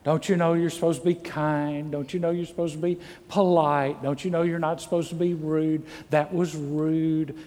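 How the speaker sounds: restrained, mildly chiding parent, drawing out the last line; mild parental scolding. Acted. Parent talking to kids on the way home, mild scolding. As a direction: gently lecture a child, holding back. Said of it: "usually you don't say it like that".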